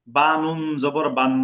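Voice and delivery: বা নুন জবর বান run together as one slow, drawn-out phrase; slow, connected teacher's spelling; joined-up spelling. Shown as a demonstration. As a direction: chain the spelling straight through to বান. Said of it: "আরেকটা তরিকা হলো".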